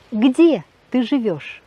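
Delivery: "Где ты живёшь?" said slowly with the stress on "Где" and a falling question tune; slow Russian question, "Где" hit first, then falling; question intonation. Shown as a demonstration. Teacher models a Russian question for French learners, slow falling tune. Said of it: "Et avec l'intonation, euh, interrogative".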